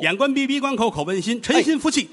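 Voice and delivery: high-pitched mystical instruction; mock ritual incantation. Sham doctor guiding patient into a ritual, incanting. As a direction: recite it like a sham healer's ritual.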